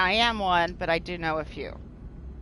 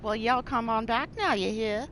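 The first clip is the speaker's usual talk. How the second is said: folksy Southern US send-off with a light twang; little Southern twang. Acted. Host teasing how she draws listeners, light Southern twang. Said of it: "Had that little southern twang".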